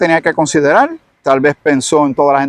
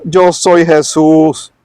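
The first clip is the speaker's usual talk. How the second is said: lightly voiced Jesus. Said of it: "Y él le contesta".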